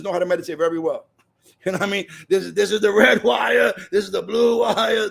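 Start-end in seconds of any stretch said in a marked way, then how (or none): 2.3-5.1 loud, emphatic call of each wire color; mock shouted instructions. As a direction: bark out the wires like an electrician on the job. Electrician calling out wires.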